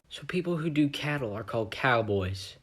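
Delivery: soft unvoiced whisper. Marvin musing to his sleepy friend, whispered. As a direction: breathe it out without voice. Marvin muses late at night.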